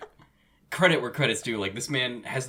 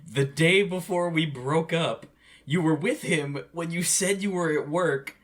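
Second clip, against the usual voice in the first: accusing; 6 semitones higher, 4 dB louder than usual. Retold or imitated. Acted quote from a heated breakup argument.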